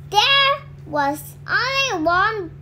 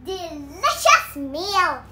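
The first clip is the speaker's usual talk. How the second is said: greedy troll. Acted. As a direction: crow over your next meal. Troll jumps up, refuses.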